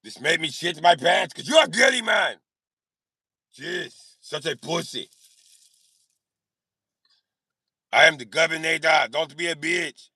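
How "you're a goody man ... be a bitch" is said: put-on reading aloud in an Austrian accent; mock Austrian tough-guy reading; Arnold Schwarzenegger accent. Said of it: "doing an Arnold Schwarzenegger accent".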